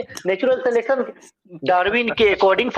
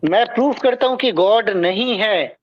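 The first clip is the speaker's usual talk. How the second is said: slower, word by word; slow down and space each word; staccato. Real, not acted. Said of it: "रुक, रुक कर बोलिए।".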